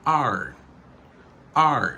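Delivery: our said like the letter "R"; one open syllable, "R"; reduced form. Shown as a demonstration. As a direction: flatten our to "R". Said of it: "La réduction, c'est".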